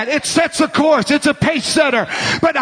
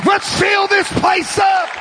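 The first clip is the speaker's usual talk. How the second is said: preach; 4 semitones higher than usual. Real, not acted. Preacher rallying the church to fill the place, shouted preaching. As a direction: preach it at full force.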